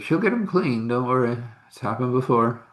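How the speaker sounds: hint of a kind older man; reassuring man. Man reassures him, voiced higher.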